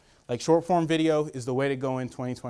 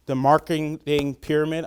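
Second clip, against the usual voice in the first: words slurred by fake teeth; tripping over words with dentures. Real, not acted. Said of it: "I'm sorry, I got fake teeth".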